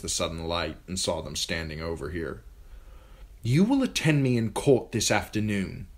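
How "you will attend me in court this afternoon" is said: higher, louder royal command; haughty young king. A narrator's reading. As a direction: order her like a spoiled boy king. Joffrey commands Sansa.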